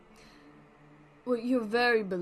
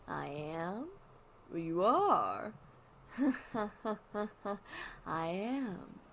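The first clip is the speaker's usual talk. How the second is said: deadpan Wally; much slower than usual. Acted. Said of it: "he's deadpan a lot. That's why I'm talking like that".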